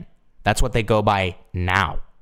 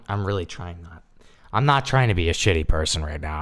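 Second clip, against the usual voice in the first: ordinary talk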